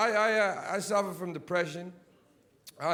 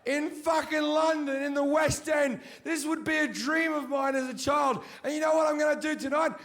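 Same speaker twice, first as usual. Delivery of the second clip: high, loud comic rant; shouting the West End rant; shouted rant; 9 semitones higher, 3 dB louder than usual. Real, not acted. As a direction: bellow the despair for laughs. Ranting climax of the bit.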